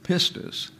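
pistis with the stress on the first syllable, pis-tis; Greek stress. Shown as a demonstration. Teacher modelling pistis for the class, stress on the iota. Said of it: "The accent there is on the iota".

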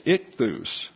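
"ichthus" stressed on "-thus"; stress on second syllable. Shown as a demonstration. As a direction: say "ichthus" slowly, leaning on the final syllable. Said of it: "the second syllable em-, uh, emphasis".

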